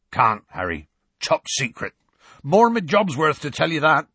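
voiced giant-man guarding a secret; secretive refusal. Hagrid refuses to tell.

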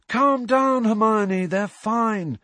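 high-pitched, easy reassurance; reassuring. A narrator's reading. Lee calms Hermione down, reassuring. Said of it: "said Lee reassuringly".

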